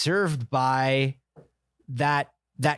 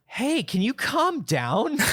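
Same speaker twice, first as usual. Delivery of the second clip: mock ex voice; 8 semitones higher, slower than usual. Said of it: "my ex would be like".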